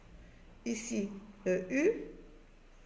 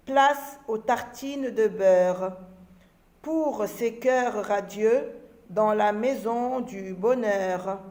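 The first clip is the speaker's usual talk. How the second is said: put-on slow, measured poem reading for children; poem recitation; 3 dB louder, much slower than usual. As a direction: recite each line slowly and clearly, pausing between lines. Recites a short poem to pupils. (récitation lente d'une poésie)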